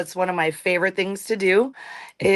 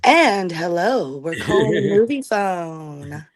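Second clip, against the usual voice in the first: movie phone voice; slower than usual. Acted. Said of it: "can you also do movie phone?".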